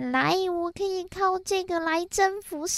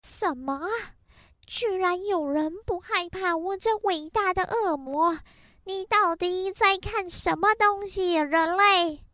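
evil demon voice. Acted. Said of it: "我是伟大的恶魔".

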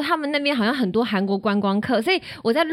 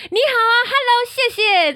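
frantic greeting; 11 semitones higher, 4 dB louder than usual. Retold or imitated. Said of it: "疯狂说".

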